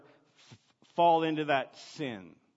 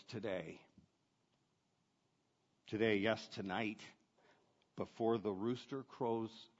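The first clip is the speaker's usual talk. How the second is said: quiet, steady and soft; Jesus calmly foretelling Peter's denial, quiet and grave; 4 semitones lower, 3 dB quieter than usual. Retold or imitated. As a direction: say it gently, with sad certainty. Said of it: "Jesus says calmly".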